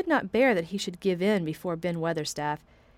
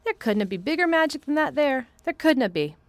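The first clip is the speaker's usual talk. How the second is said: slow; 7 semitones higher, 4 dB louder than usual. A narrator's reading. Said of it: "he said slowly".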